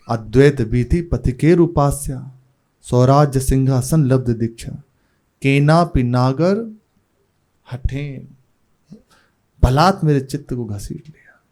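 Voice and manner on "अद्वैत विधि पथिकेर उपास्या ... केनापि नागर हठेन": verse recitation. Acted. Preacher quoting a verse to devotees, recited.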